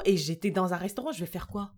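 ordinary delivery

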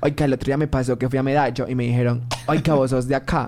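put-on lightly done Colombian paisa accent. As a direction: chat like someone from Medellín.

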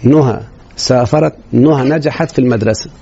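slow, deliberate example sentence. Shown as a demonstration. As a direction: spell the example out slowly. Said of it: "اسمعني يا ابني". (جملة المثال ببطء)

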